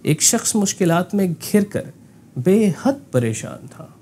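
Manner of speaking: बेहद परेशान था drawn out slowly; slow troubled reading. Shown as a demonstration. Teacher reads the line with real distress, slowly. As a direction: let the trouble sit in the words. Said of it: "आपने उतना बताया कि वो वाकई में परेशान था".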